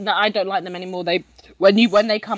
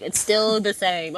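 slow, lightly voiced old woman; a hint of an old lady; 3 dB quieter, slower than usual. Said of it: "why am I putting on an old woman voice".

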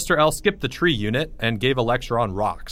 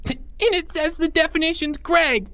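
very high squeal. Acted. Porge calling across the classroom, very high squeal. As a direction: squeal out the joke.

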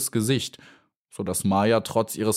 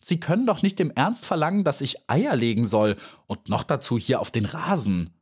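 indignant; 5 semitones higher than usual. Acted. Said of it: "nicht gerade freundlich".

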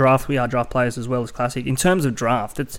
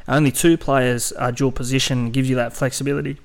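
throat catching mid-sentence; talking through a choke; choking on a drink. Real, not acted. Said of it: "I'm choking here".

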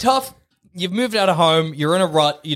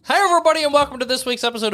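excited greeting; 6 semitones higher, much faster than usual. Real, not acted. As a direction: call out the welcome. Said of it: "My mouth is full of Jelly Bellies".

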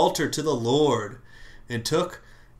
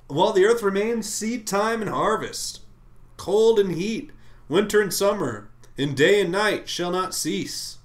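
grand God voice; 5 semitones higher than usual. Acted. Reading God's promise.

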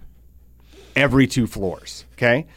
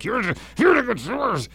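sarcastic helpfulness; 9 semitones higher, 4 dB quieter than usual. Retold or imitated. Mock helpful guide to tourists.

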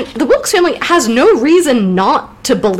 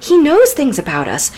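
higher, lightly mocking naive voice; mock gullible family; 7 semitones higher than usual. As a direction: play the trusting family, tongue in cheek.

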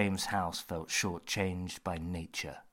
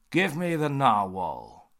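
James demanding; 5 semitones higher, 6 dB louder than usual. Acted. James demands his new penis.

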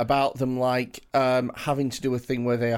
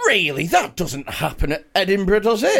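sarcastic; 7 semitones higher, 5 dB louder than usual. Acted. Sarcastic mock surprise.

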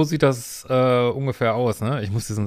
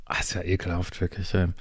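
mock disgust; 6 semitones lower, 7 dB quieter than usual. Ironic disgust at healthy love.

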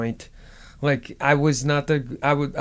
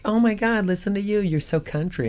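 higher, gushing mock city friend; 7 semitones higher than usual. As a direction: tease him for his country twang, gushing. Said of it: "they'd be like".

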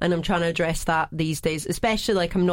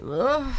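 weary groan; 4 semitones higher than usual. Retold or imitated. Woman explaining her thirties to her friend, weary groan. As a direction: groan at the thought of going out.

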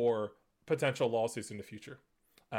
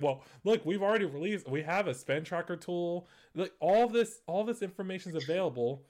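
higher-pitched company excuse; lightly voiced corporate defender, pitched up; defensive company spokesperson; 5 semitones higher than usual. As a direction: plead the company's case, higher. Voicing the company defending itself.

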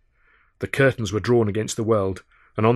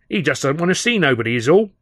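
put-on higher cheeky street kid; street urchin voice; 5 semitones higher, 4 dB louder than usual. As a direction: shrug it off like a scruffy kid. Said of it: "said the urchin".

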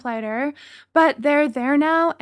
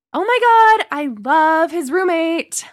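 moaning; 5 semitones higher, 4 dB louder than usual. A narrator's reading. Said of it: "Lana moaned".

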